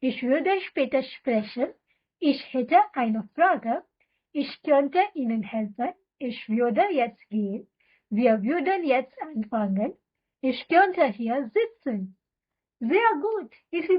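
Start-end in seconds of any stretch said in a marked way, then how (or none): 0.0-12.0 very slow, every syllable laid out for repeating; slow drill reading. Shown as a demonstration. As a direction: read it slowly so learners can echo you. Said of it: "तो चलो एक साथ बोलते हैं". (बहुत धीमे, साफ़ साफ़ दोहराने के लिए)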